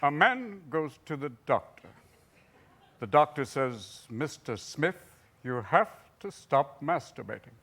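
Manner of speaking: a hint of a measured newsman; lightly voiced Cronkite joke telling; Walter Cronkite. Telling a blue joke as Walter Cronkite, only lightly voiced. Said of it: "I tell a joke, uh, as Walter".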